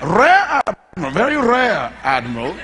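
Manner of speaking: slow, hammed-up outrage from a pompous admiral; irate admiral. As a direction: play the offended admiral puffing himself up, mock furious. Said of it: "He is mad".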